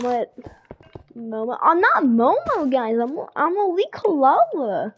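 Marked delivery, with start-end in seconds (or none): 1.6-4.9 slower, louder and higher put-on persona voice; Elite Kalala voice. To stream viewers, claiming the Elite Kalala persona, lightly hammed up. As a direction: announce your alter ego with a slow, puffed-up swagger. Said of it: "There's the Elite Kalala voice".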